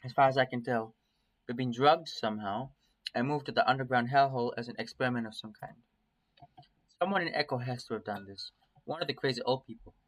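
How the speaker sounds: measured first-person story reading; story narration. A narrator's reading. Streamer reading a nightmare tale to viewers, story narration. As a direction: read it as an inner monologue.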